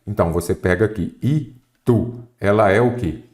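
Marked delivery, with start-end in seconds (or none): 1.2-2.2 "Itu" in two separate syllables, I, tu; split into syllables. Shown as a demonstration. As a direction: pause between "I" and "tu" in "Itu". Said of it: "Qual que é a sílaba tônica?".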